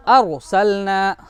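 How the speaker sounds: अरसलना very slow, with a heavy R; thick heavy R. Shown as a demonstration. Teacher repeating the example for pupils, slow thick R. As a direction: stretch अरसलना out, the R full and thick. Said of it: "मोटा करना है".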